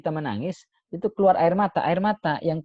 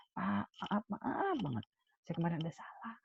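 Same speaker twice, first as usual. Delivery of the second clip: soft, high, meek pleading voice; very gentle apology; 5 semitones higher, 11 dB quieter than usual. Shown as a demonstration. Servant confessing a mistake to a harsh master, very gentle. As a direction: apologise very softly, like a humble servant. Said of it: "Pasti dengan sangat lembut".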